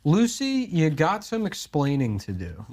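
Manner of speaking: a hint of scolding sitcom husband; lightly voiced scolding sitcom husband; sitcom husband catchphrase. Quotes famous sitcom catchphrase.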